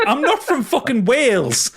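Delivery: high, slow laughing protest; indignant through giggles; laughing mock offence. Co-host mocking accent jokes, high laughing protest.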